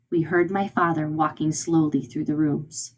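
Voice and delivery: measured, suspenseful narration; slowed-down dramatic reading. Shown as a demonstration. Teacher reads father walking through rooms, slowed slightly for drama. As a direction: let the words creep along a little. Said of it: "I kinda slowed my voice down".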